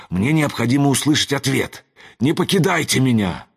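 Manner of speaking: urgent pleading. A narrator's reading. Son calls to his parents' fading spirits, urgent pleading. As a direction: beg them to stay.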